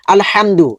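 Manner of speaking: short unheld m in "আলহামদু"; quick, no ghunnah. Shown as a demonstration. Teacher shows a no-ghunnah word, said quickly. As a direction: say "আলহামদু" with the m passed quickly, no held hum. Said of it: "গুণনা না হলে দ্রুত করতে হবে".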